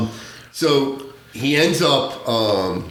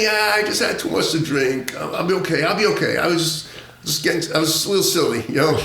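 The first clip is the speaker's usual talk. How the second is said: put-on higher-pitched sheepish drunk excuse; lightly voiced drunk; 4 semitones higher than usual. Bobby reassuring firemen after his collapse, mild drunk act.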